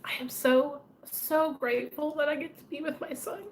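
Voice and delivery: tearful, broken whisper fighting back tears; choked-up grateful whisper; emotional whisper. Real, not acted. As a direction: whisper through real tears of gratitude. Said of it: "I'm gonna get emotional".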